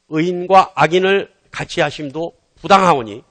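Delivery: slow, measured Bible reading; scripture reading. A narrator's reading. Preacher reading Genesis to the congregation, measured scripture reading. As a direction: read it out solemnly and slowly. Reads the scripture verse aloud.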